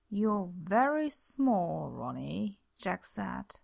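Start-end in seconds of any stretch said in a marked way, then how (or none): 0.1-2.6 slow taunting. Acted. Taunting shrunken creature.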